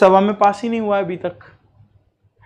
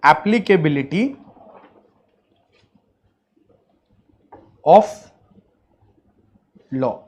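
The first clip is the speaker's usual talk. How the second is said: word by word, long pauses between; dictation; 4 semitones lower, 4 dB quieter than usual. Real, not acted. Teacher dictates a heading to students, measured dictation. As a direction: dictate it slowly for note-takers.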